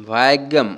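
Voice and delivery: slow "ভাগ্যম" with a drawn-out first vowel; Malayalam pronunciation. Shown as a demonstration. Teacher showing learners the different pronunciation, Malayalam pronunciation of "ভাগ্যম". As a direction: stretch the "ভা" in "ভাগ্যম". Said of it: "এরকম".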